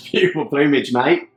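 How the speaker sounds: a weak, hammed-up Aussie twang; mock Australian, badly done; terrible Australian accent. Co-host's phrase repeated in a bad Aussie accent. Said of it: "That was a terrible Australian accent".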